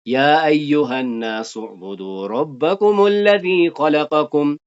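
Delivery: slow, drawn-out chanted recitation; measured Quranic recitation. Acted. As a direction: recite the verse slowly, stretching the vowels. Recites Quran verse in lesson.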